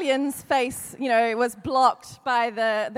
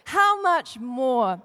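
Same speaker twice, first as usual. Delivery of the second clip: the Lord speaking slowly; slow solemn; much slower than usual. Shown as a demonstration. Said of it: "repeated as the Lord's words".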